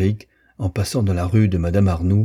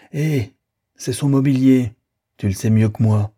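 higher, a touch louder, exasperated retort; impatient accusation; 5 semitones higher, 4 dB louder than usual. A narrator's reading. Frédéric confronting Rosanette over the sale, impatient. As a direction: throw the accusation back, mildly heated.

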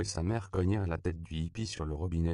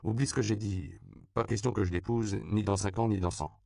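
put-on adamant girl; 3 semitones higher than usual. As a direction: swear it off flatly. Girl refusing marriage.

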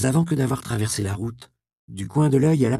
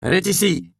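higher and louder, a furious cry; furious shout; 10 semitones higher, 5 dB louder than usual. A narrator's reading. Provost spotting the girl's bed, a furious shout. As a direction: yell it in triumphant rage. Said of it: "cria le prévôt dans un élan de fureur".

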